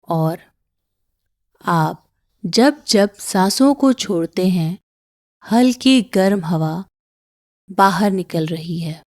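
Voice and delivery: calm meditation guide with long pauses; unhurried breathing-exercise voice; guided meditation. Acted. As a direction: guide them gently through each breath, pausing between phrases.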